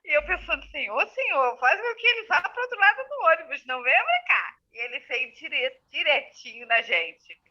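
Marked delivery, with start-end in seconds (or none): 0.7-4.6 higher-pitched mock pleading; acted-out anxious plea; pleading prayer. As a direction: beg heaven in comic desperation. Silent desperate prayer acted out.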